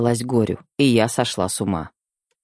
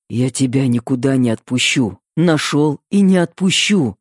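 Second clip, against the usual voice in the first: hoarse promise. Acted. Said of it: "Хрипло обещал".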